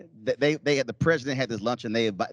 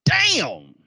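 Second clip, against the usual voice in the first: shocked exclamation; 11 semitones higher, 5 dB louder than usual. Retold or imitated. Reacting to a movie line.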